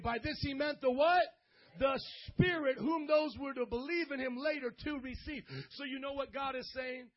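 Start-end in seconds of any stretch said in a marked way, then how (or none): 0.0-5.4 loud, emphatic preacher's prompt; raised, forceful declaration; say it like you mean it. Shown as a demonstration. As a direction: belt it out to rouse the congregation. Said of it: "say it like you mean it".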